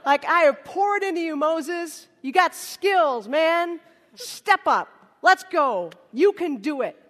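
loud mock motivational speech; pep talk. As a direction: pump him up like a coach. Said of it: "He doesn't give him a little pep talk".

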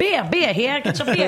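high loud beer call, laughing; stadium vendor hawking. Shown as a demonstration. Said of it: "Can you do that?".

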